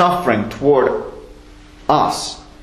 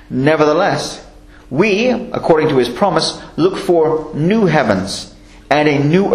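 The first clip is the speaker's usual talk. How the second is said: measured, solemn Bible reading; scripture reading. Acted. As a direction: read the verses like a preacher at the pulpit. Reads scripture aloud.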